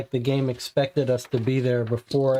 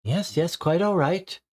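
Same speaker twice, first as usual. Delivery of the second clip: lady's voice, pitched higher; flustered lady; 5 semitones higher than usual. Acted. Lady at the door reassuring the visitor, in a higher, hurried voice. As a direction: hurry to reassure him, a bit too eager.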